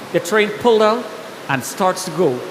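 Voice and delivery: usual speaking voice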